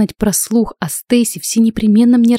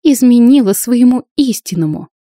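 loud, higher staged accusation; showy loud charge; deliberately loud; 5 semitones higher, 4 dB louder than usual. Acted. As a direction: keep broadcasting the accusation to the room. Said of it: "нарочито громко ответила Стейси".

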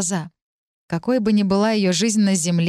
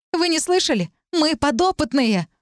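panicked; 8 semitones higher than usual. Acted. Talit alarms the other girls.

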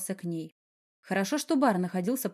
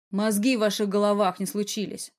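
ordinary delivery

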